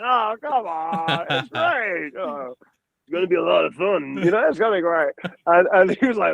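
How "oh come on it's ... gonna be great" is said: retold coaxing. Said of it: "And I was like".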